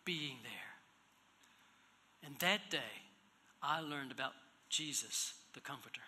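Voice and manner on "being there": whisper. Retold or imitated. Grieving widow thanks him.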